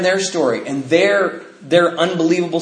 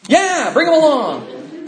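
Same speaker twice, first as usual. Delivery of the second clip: laughing reply; 11 semitones higher, much slower than usual. Retold or imitated. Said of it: "I'm like".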